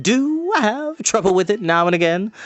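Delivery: high, bright bardic voice; lightly comic bard; Fluter's voice. Acted. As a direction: play the excitable bard.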